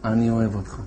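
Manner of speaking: soft, low loving murmur; tender. Retold or imitated. Rabbi silently sending love to the angry informer, soft and low. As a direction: beam love at him quietly. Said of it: "שידרתי לו".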